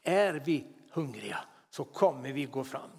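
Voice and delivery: ordinary talk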